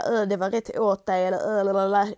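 loud sing-song taunt; mock gloating. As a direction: gloat like a playground bully. (hånfullt retsamt)

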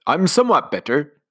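lightly voiced mournful widower; a touch of put-on grief; commander. Commander answering Nanny, a hint of mock grief.

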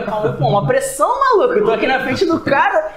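sem fôlego depois de cantar; ofegante. Real, not acted. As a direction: recuperando o fôlego, ainda ofegante. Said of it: "deixa eu respirar agora aqui". (sem fôlego)

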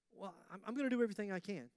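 quick, sarcastic parroting; mocking churchgoers. Preacher mimicking doubtful listeners, fast and mocking. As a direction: rattle it off like a scoffing listener. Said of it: "some of you going".

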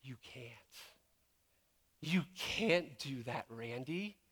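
soft, slow, with space around it; gentle truth-telling. Retold or imitated. God answering a doubting pastor, softly and gently. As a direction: let him down softly and slowly.

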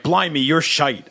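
slow, lightly put-on British insult; a touch of British slang delivery; mock British accent. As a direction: drag it out in imitation British. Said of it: "British people are fucking awful at insulting".

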